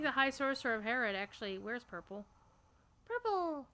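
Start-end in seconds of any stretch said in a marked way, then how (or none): 3.1-3.7 excited. Real, not acted. Triumphant repeat of the colour.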